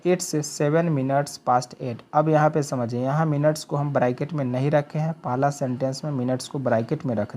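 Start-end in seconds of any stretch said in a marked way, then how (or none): 0.1-2.0 each word drawn out for learners; very slow model sentence. Shown as a demonstration. Teacher showing students how to say the time, very slow. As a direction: dictate it word by word, very slowly. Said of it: "तो इसको क्या बोलेंगे".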